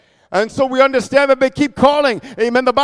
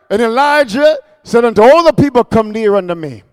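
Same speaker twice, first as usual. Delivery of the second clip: full-voiced proclamation; 4 dB louder than usual. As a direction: proclaim the verse out loud. Repeats the verse in full voice.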